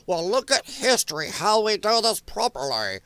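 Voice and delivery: lightly put-on British accent. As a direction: mimic a British economist, mockingly. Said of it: "I'm saying it in British accent".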